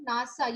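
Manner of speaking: "nasa" said as one word, NA-sa. Shown as a demonstration. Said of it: "spell out every letter".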